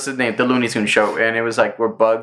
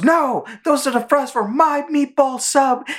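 high, slow indignant duck; Daffy voice; 13 semitones higher than usual. Retold or imitated. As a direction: stretch it out high like an outraged Daffy. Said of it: "He goes".

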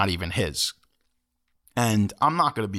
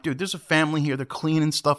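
fast, higher-pitched mild confrontation; ready to lay in; 5 semitones higher than usual. Retold or imitated. Moviegoer lays into the man blocking a family, mildly heated. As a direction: press him quickly, a touch of anger. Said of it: "I'm ready to lay into him".

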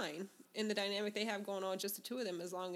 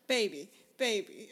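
mocking couple's baby talk; 5 dB louder than usual. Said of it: "sometimes you don't need to say that".

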